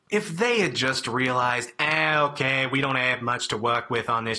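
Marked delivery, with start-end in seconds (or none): 1.8-4.4 a bad, half-hearted Boston accent; lazy attempt at a Boston accent. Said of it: "my Boston accent is terrible".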